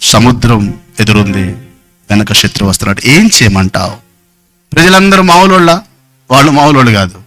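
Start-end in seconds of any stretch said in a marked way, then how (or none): 0.0-4.0 helpless plea. Acted. Moses cries to God, trapped.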